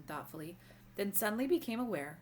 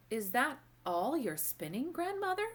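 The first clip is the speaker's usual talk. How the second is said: put-on child voice; 7 semitones higher, 4 dB louder than usual. A narrator's reading. Child asks, pitch leaps high.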